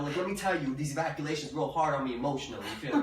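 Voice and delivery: lightly put-on intense sincerity; mock-serious, matter-of-fact. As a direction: imitate a man earnestly stating it as fact. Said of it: "he said that shit like a fact".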